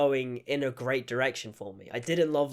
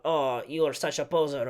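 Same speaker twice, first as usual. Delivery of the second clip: imitated put-down, lightly sneering; mock snide remark; 3 semitones lower than usual. Reviewer mimicking the heroine's put-downs, mock snide. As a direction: toss off a mildly snide jibe. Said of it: "making a snide remark".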